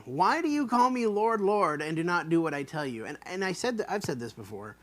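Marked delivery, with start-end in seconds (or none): 0.1-3.1 a pointed why; plain pleading Jesus; Jesus' question. Shown as a demonstration. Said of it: "Jesus has this question".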